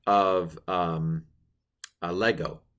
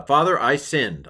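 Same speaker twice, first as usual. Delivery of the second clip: repentant son; 6 semitones higher, 6 dB louder than usual. Acted. Voicing the son's confession.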